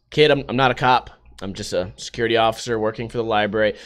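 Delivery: low, soft, patient guard; calm security guard. Acted. Library guard calmly asking the skater kid to leave, low and soft. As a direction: talk the kid down quietly, very low.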